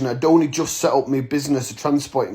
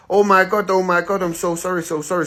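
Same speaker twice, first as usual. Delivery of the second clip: lightly voiced apologetic staff, pitched up; mock a flustered apology in a higher voice; higher voice, fading as the apologies repeat; imitated flustered apology; 5 semitones higher than usual.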